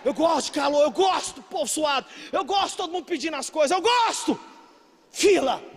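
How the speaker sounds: loud, punchy list climbing in pitch; hammed-up defiant enthusiasm. Preacher answering why he stays in Brazil, comically defiant. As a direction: insist on it with comic relish.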